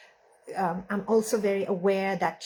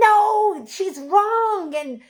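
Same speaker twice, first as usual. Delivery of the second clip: higher and louder, rushing to reassure her; mother jumping in to reassure her daughter, raised and urgent; urgent reassurance; 5 semitones higher, 4 dB louder than usual. Retold or imitated. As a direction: blurt out that she's wrong, eager to comfort. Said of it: "just wanted to say".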